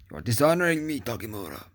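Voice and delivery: hammed-up indignant reproach; mock-dramatic scolding. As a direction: play the dishonored warrior scolding a toy. Mock-scolds the figure in character.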